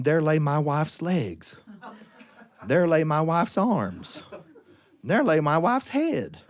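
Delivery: slow, falling, paused lines; deadpan slow pauses; slow grim list. A narrator's reading. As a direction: let each line land slowly.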